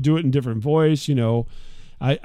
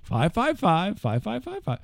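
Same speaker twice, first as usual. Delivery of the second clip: careful number reading; 5 semitones higher, 5 dB quieter than usual. Retold or imitated. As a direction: spell out each five carefully for the phone. Saying number to phone system.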